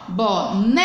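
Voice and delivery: long, held NÉ in "boneca"; teacher's slow stress demo on boNEca; stressed syllable drawn out. Shown as a demonstration. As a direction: stretch the middle syllable of "boneca". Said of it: "pronunciado com força".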